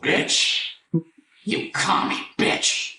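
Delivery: high mock catchphrase. Acting out the Juggernaut catchphrase.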